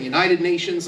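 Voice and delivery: Texan pronunciation of "United Nations"; Texas accent. Shown as a demonstration. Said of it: "like we do in Texas".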